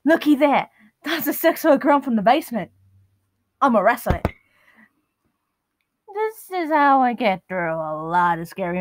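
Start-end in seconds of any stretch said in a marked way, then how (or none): 0.0-4.3 Steve Irwin impression. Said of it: "pretend you're Steve Irwin".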